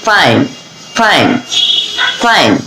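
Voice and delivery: "ফাইন" with a hissed f, not ph; clear f in fine. Shown as a demonstration. Teacher repeats a drill word with a clear f. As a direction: drill the f of "ফাইন" each time. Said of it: "এভাবে আমরা বলবো".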